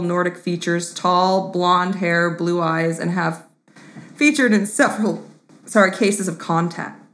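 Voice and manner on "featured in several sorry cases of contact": burping the words. Real, not acted. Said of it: "that burp came out in the wrong time".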